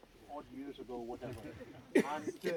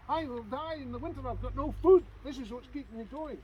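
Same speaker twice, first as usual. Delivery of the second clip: crying plea; 8 semitones higher, 6 dB louder than usual. Acted. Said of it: "she was crying and sobbing".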